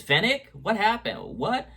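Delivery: high, shocked questions; startled. Retold or imitated. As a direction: caught off guard, voice jumping up. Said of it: "Din immediately says".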